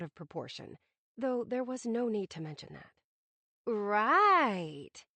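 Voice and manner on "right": dry, sarcastic drawn-out right; oozing sarcasm. Acted. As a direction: drip sarcasm on the word. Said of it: "she oozed sarcasm".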